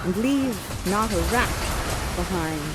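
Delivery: measured, reflective reading of the closing speech; Shakespeare recitation. Shown as a demonstration. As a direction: let each image land with pauses. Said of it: "end the play with Shakespeare's beautiful words".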